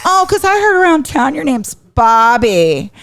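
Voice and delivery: high, slow needling tease; taunting. Retold or imitated. Sister winding up her brother, taunting. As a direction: stretch it out to goad him.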